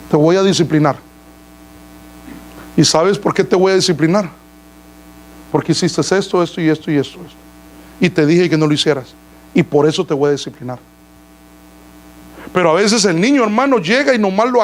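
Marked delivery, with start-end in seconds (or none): 0.1-10.8 measured, calm parent explaining discipline; composed, instructive parental voice; speaking kindly. Acted. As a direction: explain it to the child evenly, without scolding. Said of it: "háblales bien para que entiendan".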